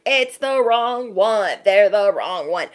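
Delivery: mock screaming. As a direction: imitate an alarm going off, half-hearted scream. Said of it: "It won't be screaming at us like".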